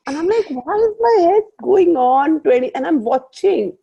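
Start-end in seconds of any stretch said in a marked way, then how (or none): 0.5-2.7 higher, louder mock panic; a touch of alarmed disbelief, higher and louder; retold alarm. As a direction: replay the moment your head started racing. Retelling her own panicked thought.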